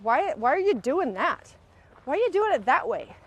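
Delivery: demanded accusingly, pitch climbing; accusing criticism demo. Shown as a demonstration. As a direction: fire the why at them like a charge. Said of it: "Okay, ready?".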